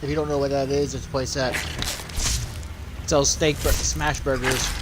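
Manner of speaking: words round a mouthful; chewing mid sentence; chewing while talking. Real, not acted. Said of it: "I'm trying to eat".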